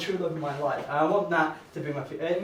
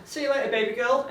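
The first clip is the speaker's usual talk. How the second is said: cool line; 6 semitones higher than usual. Retold or imitated. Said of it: "What I actually said was".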